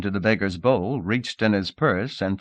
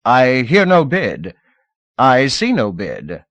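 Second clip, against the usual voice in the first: nervous auctioneer calling, louder and slow; 4 semitones higher, 7 dB louder, slower than usual. Acted. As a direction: call for bids with nerves showing. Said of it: "said nervously".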